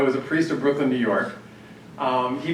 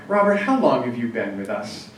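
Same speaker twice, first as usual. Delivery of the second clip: a dry, unimpressed pastor's question; 4 semitones lower than usual. Retold or imitated. Pastor dryly asks Robert how long he's been there, mildly dry. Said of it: "he said very dryly".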